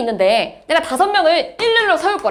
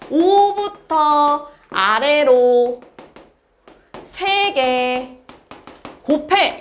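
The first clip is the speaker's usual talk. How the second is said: very slow, each chunk stretched and set apart; drawn-out explanation; much slower than usual. Shown as a demonstration. Teacher spelling out a new symbol for students, very slowly. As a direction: draw out 오부터, 아래로 and 세 개, pausing between.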